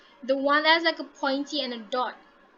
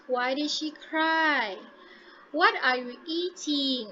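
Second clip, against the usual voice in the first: slow demo, pitch falling on "cry" and "eating"; falling intonation; slower than usual. Shown as a demonstration. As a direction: let the voice fall down at the end of "cry" and "eating". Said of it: "so it falls down".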